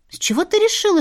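plain reading voice

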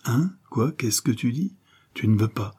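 a mild start, taken aback; mock astonishment, tu ne veux pas; startled disbelief. Diana startled by her lover's refusal, mild disbelief. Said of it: "sursauta la misérable".

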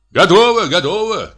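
high cry from eager guests; calling out. A narrator's reading. Guests to the departing party, calling out. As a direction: call it out high, ready to go. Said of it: "крикнули гости".

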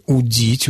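удить with the stress on дить; stress on suffix. Shown as a demonstration. Expert shows the infinitive, удить stressed on дить. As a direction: say удить stressed on its last syllable. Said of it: "ударение на суффиксе после корня".

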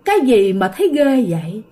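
a lightly voiced grinning ghost, echoing; ghost's voice. Storyteller voicing the fanged ghost on the branch, a hint of eerie taunt. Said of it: "nó nói vậy nè".

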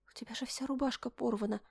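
soft anxious whisper; worried whisper. Acted. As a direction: breathe it out in concern.

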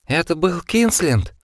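heavy-breathing slow question. A narrator's reading. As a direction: ask it panting hard. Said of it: "тяжело дыша спросил он".

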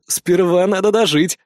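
slow, smug and self-satisfied; smug retort. A narrator's reading. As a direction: savour the line like you've already won. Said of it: "самодовольно ответил я".

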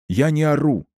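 shouting match. A narrator's reading. Shouting match, he denies yelling.

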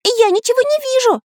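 high, puzzled little voice; a bewildered small character; surprised Pencil. A narrator's reading. Pencil tells the scientist he sees nothing, high puzzled. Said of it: "удивился Карандаш".

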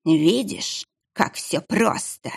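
hissed, half-whispered gloat; gloating monk. Acted. Monk gloats to the boy in a hissed half-whisper. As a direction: let it slip out as a hiss.

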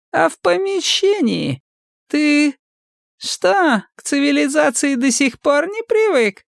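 very high, sneering squeak; squeaky mockery. A narrator's reading. Мазур пискляво издевается над Сомиком. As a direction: keep needling him, squeaky.

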